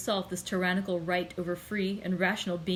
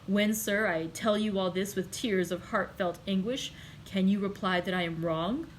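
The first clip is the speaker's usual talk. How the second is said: violent outburst. Acted. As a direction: lash out at the one holding you back. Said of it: "changing his expression of calmness for one of violence".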